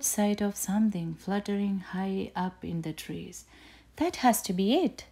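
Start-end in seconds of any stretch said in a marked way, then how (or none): 4.0-5.0 higher and a bit louder, eager cry; mild shout. A narrator's reading. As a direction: call up to the trees. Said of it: "she shouted".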